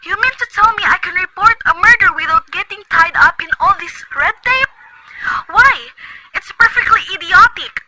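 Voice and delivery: high, outraged disbelief at the red tape; an indignant lady losing patience; exasperated indignation. Acted. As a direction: huff at the idiocy of it all. Indignant invalid phoning officials.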